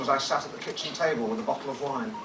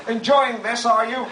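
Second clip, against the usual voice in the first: higher and louder jibe at the neighbours; mock shout through hedge; 7 semitones higher, 5 dB louder, slower than usual. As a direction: call out sarcastically over the hedge. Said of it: "I shouted through the hedge".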